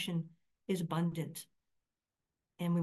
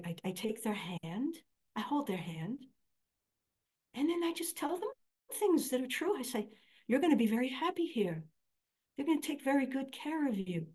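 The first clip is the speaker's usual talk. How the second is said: voicing old mom; 3 semitones higher than usual. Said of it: "she said".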